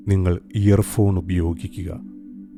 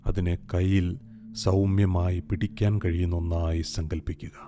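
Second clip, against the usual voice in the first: a softer echo of the same words; softer repeat; 6 dB quieter than usual. Acted. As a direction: repeat the instruction much softer. Repeats instruction more softly.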